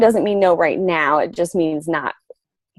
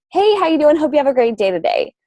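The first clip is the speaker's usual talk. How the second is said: cheery check-in; 7 semitones higher than usual. Retold or imitated. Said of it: "With no other intention".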